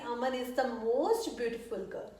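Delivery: slow, word-by-word dictation pace; slow model sentence. Shown as a demonstration. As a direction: spell it out slowly for the class. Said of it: "तो मैं क्या कहूँगी?". (धीमे, साफ़ उदाहरण वाक्य)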